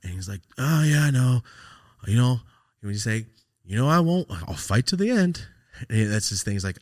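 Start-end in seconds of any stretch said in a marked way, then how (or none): 0.6-2.4 lightly voiced friend, louder and higher; retold reply with raised voice; friend's reply. 3.6-5.5 raised-pitch, determined impression of a friend; retold fighting words, stretched at the end; defiant friend.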